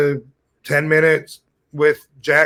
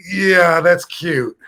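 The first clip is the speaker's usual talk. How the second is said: sarcastic; 4 semitones higher, 3 dB louder, much slower than usual. Retold or imitated. His sarcastic retort.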